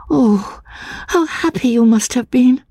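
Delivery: put-on high, hushed, eager young woman; light up with longing. Anne to the stranger about Limmeridge, eager and high. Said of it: "looking at me eagerly".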